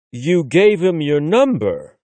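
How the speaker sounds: slow, disbelieving question; Will can't believe it; incredulous. A narrator's reading. Will questions his friend, incredulous. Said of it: "Will asks incredulously".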